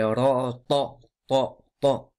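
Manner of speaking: "ta" dark and emphatic, near "to"; emphatic "ta", repeated; heavy T. Shown as a demonstration. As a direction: drill "ra, ta" with full heavy sounds. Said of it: "alors que c'est صراط".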